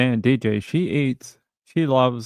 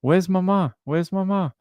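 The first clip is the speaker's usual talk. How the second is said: talking to the cat; 7 semitones higher than usual. Retold or imitated. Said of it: "I was like".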